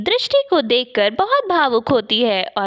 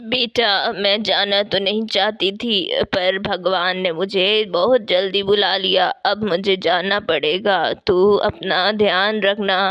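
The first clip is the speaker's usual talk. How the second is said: dying mother; 4 semitones lower than usual. Acted.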